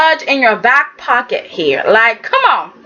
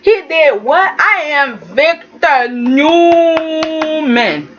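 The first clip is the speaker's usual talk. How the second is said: mock indignant Victor; much slower than usual. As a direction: drawl the name with wounded pride. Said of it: "You were like".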